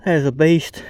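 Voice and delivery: high, breathless laugh into praise; giddy awe at the fish; real elated laughter and exclamation; excited laugh. Real, not acted. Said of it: "I gotta catch my breath".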